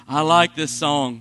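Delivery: low, loud, slow attempt at whispering; booming low would-be whisper; failed whisper. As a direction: imitate someone who can't whisper. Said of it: "had no concept of whispering".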